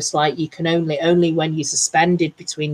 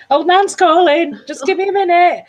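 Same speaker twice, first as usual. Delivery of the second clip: high, loud mock phone voice; a hammed-up old lady taking a call; Old Nan on the phone; 14 semitones higher, 6 dB louder than usual. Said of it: "I thought you meant she was, like, on the phone".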